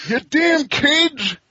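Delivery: put-on grumpy old man scolding kids. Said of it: "I can't even do my old man impression anymore".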